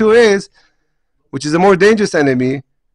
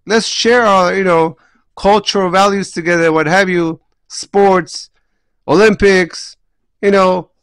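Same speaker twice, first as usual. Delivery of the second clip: enticing Greeks; 3 semitones higher than usual. Retold or imitated. Rabbi voices the Greeks luring Jews from spirit, lightly mocking. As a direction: sell the easy life with a smile. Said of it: "comes and says".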